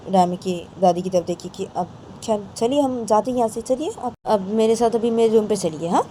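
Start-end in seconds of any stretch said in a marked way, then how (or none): 2.5-6.0 higher, louder urging to leave; grandma urging her friend to leave; urging away. Acted. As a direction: hurry her out of the room, insisting.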